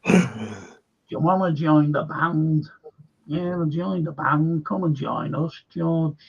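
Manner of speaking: lightly put-on Liverpool accent; Scouse accent. Quoting a band's film dialogue, in a Scouse accent. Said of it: "Did you like me Scouse accent then?".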